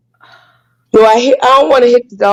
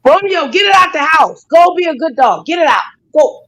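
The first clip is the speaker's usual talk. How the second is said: higher, urgent commands to the dog; yelling at the dog; 6 semitones higher than usual. Real, not acted. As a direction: order the dog out, shouting in frustration.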